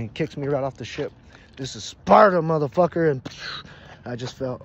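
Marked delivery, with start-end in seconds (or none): 1.6-3.1 loud, raised movie-hero shout; mock battle cry. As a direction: proclaim it as you kick someone. Movie quote while kicking him.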